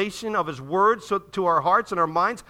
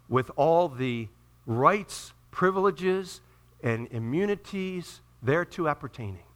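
tag; 2 semitones lower, slower than usual. Acted. Recites formal wording of his diploma.

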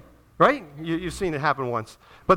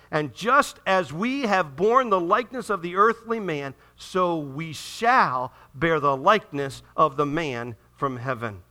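measured, emphatic Bible reading; scripture reading. Acted. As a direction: read the verse aloud with deliberate weight. Reads scripture aloud to congregation.

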